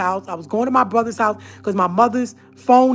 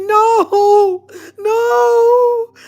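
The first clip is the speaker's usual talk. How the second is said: high, loud crying refusal; frightened crying no; 11 semitones higher, 5 dB louder than usual. Retold or imitated. Sister refusing brother near the dog, crying in fear. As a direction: cry out no in terror.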